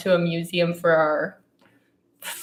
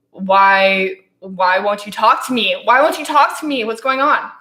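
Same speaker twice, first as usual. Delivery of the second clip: retold pleading; 4 dB louder than usual. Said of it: "and I was like".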